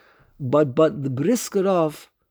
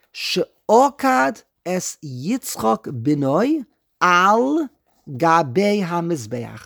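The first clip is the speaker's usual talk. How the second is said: slow siddur reading; 3 dB louder, much slower than usual. Shown as a demonstration. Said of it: "the Nusach of the Siddur".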